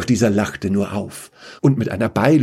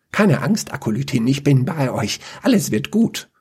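higher, earnest comfort; reassuring; 4 semitones higher than usual. Acted. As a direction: soothe her gently. Dinomant comforts fallen Luca.

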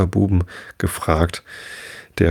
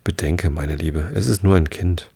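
mild. Acted. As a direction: gently soothe his wife. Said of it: "sagte milde".

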